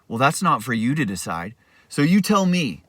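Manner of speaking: replicate his smug grin. Retold or imitated. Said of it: "I'll try to replicate it the best I can".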